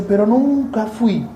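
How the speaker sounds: high, slow whiny woman's voice; mimicking a sister from church. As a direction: play the sister, pleading and high. Mimics woman met in Mexico.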